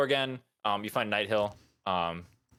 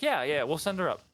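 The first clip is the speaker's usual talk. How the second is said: high-pitched agreeing villager; townsfolk voice; 7 semitones higher than usual. Acted. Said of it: "a couple of townsfolk are kinda like".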